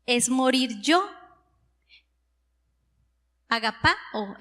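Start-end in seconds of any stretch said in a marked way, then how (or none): 3.5-4.4 "agapao" with PA stressed before the final o; accent on the A. Shown as a demonstration. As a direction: say agaPÁ-o, leaning on the A. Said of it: "en la tilde en la A".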